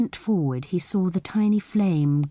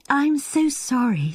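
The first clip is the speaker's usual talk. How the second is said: much higher, amused apology; apologising through laughter; 9 semitones higher than usual. A narrator's reading. Anne apologises to Reggie for laughing, higher and amused. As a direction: sound on the edge of laughing. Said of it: "to be laughing like this".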